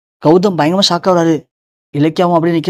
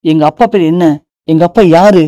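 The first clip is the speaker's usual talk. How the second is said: louder, pleading cry for an answer; desperate demand; 4 dB louder than usual. Acted. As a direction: demand it, voice breaking out. Son desperately demanding father's name.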